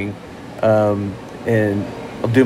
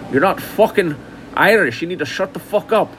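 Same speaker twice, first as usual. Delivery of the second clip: higher-pitched mock Irish telling-off; imitated Irish accent; 6 semitones higher than usual. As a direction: voice an annoyed local with an Irish accent. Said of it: "talking to Irish people. And they said".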